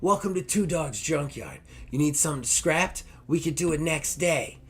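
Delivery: high, cheery shop clerk greeting; friendly clerk voice. Retold or imitated. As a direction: put on a helpful counter voice. Dog greets customers at desk.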